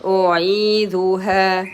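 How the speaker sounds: أعيذها with a held final aa; two-count alef. Shown as a demonstration. Teacher gives two periods for alef, prolonging the end of أعيذها. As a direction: draw out the last vowel of أعيذها evenly. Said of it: "Two periods for the ألف".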